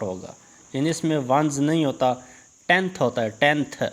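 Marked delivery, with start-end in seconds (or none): 2.7-3.0 टेंथ ending on a clear TH sound; final TH sounded. Shown as a demonstration. Teacher showing pupils the TH ending of टेंथ, carefully pronounced. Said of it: "आखिर में टीएच आएगा". 3.3-3.8 टेंथ as one separate word, ending in TH; final TH sounded. Shown as a demonstration. Teacher repeating टेंथ for pupils, final TH carefully sounded. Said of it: "आखिर में टीएच आएगा".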